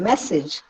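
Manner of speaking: "മെസ്സേജ്" stressed on the opening മെ; stress on first syllable. Shown as a demonstration. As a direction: lean on മെ, let സേജ് fall away in "മെസ്സേജ്". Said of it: "മ എന്നതിനാണ് stress കിട്ടുന്നത്". ("മെസ്സേജ്" എന്നതിൽ ആദ്യ ഭാഗം ഊന്നിപ്പറയുക)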